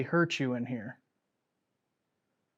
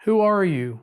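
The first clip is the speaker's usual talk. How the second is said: raised, higher calling voice; 6 semitones higher, 7 dB louder than usual. Real, not acted. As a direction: call out into the dark cabin. Calling out to a spirit.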